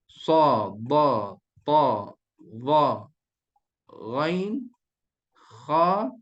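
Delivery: each letter said separately with heavy emphatic resonance; thick tafkhim letters. Shown as a demonstration. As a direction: space out "ghain" and "kha" with a thick sound. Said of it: "huruf yang tebal".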